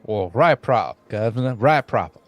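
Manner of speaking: Southern twang on Cockney words; accidental Southern accent. Acted. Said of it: "I don't know why he's Southern".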